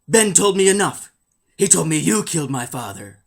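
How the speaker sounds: hammed-up young hero, loud and strained; Luke. Hero answering the villain who killed his father, melodramatic accusation. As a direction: hurl the accusation, mock-dramatic. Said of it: "Luke answers".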